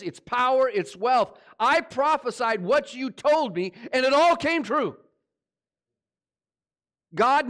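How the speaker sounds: preacher voicing Jonah complaining to God; impassioned Jonah. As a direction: press God like a wronged prophet. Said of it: "expressing how Jonah has felt".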